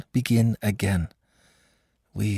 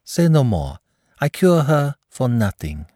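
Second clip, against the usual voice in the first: gushing praise; 7 semitones higher than usual. Acted. Mother gushing about the doctor.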